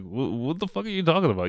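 mock outrage. Retold outburst at partner.

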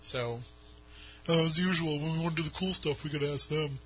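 lightly put-on mock pleading voice. Host mock-asking the Army Corps for tunnel access, lightly put-on voice. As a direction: play at asking permission in a slightly silly voice. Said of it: "I don't know why I'm using that voice".

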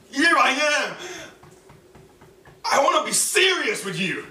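high, loud plea building to a cry; fervent prayer. Retold or imitated. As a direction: offer yourself to God, voice rising and swelling. Retold fervent prayer to God.

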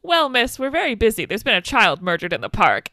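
mildly put-on officious cop delivery; brusque cop. Imitating a busy cop brushing off a caller, lightly officious. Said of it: "just the way he says it is so funny".

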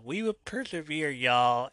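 high-pitched rallying call, only half shouted; rally the crowd in a retold yell; mild mock yell. Liberty Bell to the crowd, mild mock yell. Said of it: "She stands up and yells".

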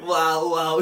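loud toy-doll parroting; lightly voiced robotic repeat; imitated doll echo. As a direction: echo the screams like a talking doll. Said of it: "e a boneca".

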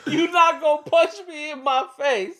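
high, laughing retelling. Acted. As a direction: crack up while saying it. Repeating quote cracking up.

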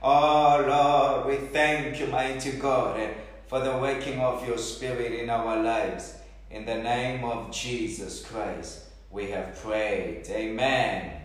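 earnest, pleading prayer voice; fervent prayer. Acted. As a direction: pray aloud over the congregation. Closing prayer.

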